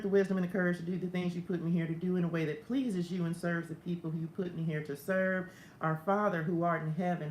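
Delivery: steady, even recited prayer; spoken prayer. Real, not acted. Pastor praying to Father God before the lesson, steady recitation. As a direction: pray it straight through in a level run.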